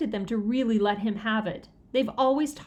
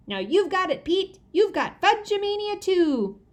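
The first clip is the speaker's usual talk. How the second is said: excited; 10 semitones higher, 4 dB louder than usual. A narrator's reading. Fudge swats Pete, excited.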